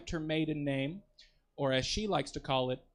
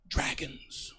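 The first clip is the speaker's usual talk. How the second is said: squeaky punchline; 3 dB quieter than usual. Acted.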